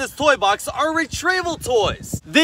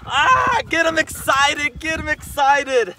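excited; 4 semitones higher than usual. Real, not acted. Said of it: "get 'em excited".

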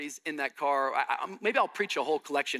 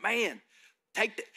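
put-on Tennessee boy egging on; 5 semitones higher than usual. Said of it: "they're like".

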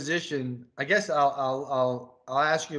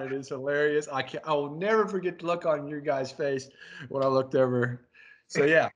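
usual speaking voice

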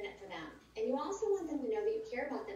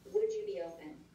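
the four words lifted much higher; model question; 13 semitones higher than usual. Shown as a demonstration. Coach demonstrating the four-word question to new recruits, pitched high. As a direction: pitch the question up, light and inviting. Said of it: "you're gonna ask four words".

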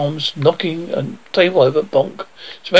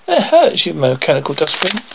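angry shout. Acted. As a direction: yell at the clumsy robot. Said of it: "shouted Alfred".

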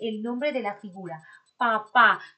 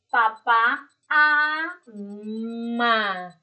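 slow reading aloud; 4 dB louder, much slower than usual. Shown as a demonstration. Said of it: "Ahí está".

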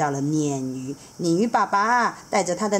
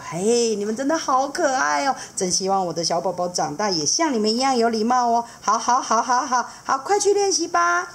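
much higher, fast and chatty; eager seahorse dad; 6 semitones higher than usual. Acted. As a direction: rattle it off, knowing and playful. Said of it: "海马爸爸就说".

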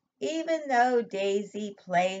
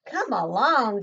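shouting; 3 semitones higher, 9 dB louder, slower than usual. Acted. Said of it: "shouted Mama".

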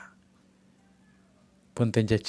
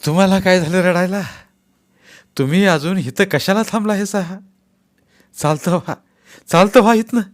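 higher, louder furious snapping; angry shout; 8 semitones higher, 8 dB louder than usual. Acted. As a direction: bark them out of the room. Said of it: "खेकसून बापू ओरडले".

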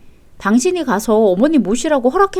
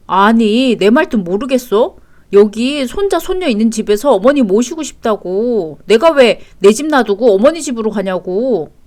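louder, indignant protest; angry; 4 dB louder than usual. Acted. Husband insisting mother move in with them, angry. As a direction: push back at a partner who won't get it. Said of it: "당신이 왜 화를 내는지".

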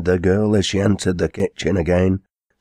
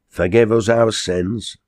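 slow, slightly higher pious exclamation; lightly voiced quarryman, pious; 4 semitones higher, 3 dB louder than usual. Quarryman into his pot, slow mild plea.

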